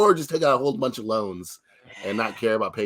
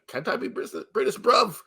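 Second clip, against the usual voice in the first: playful British slang, pitched up; lightly put-on British "bruv, gov"; mock British accent; 4 semitones higher than usual. Actor pleading to stay British, mock British accent. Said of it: "He could have had a British accent".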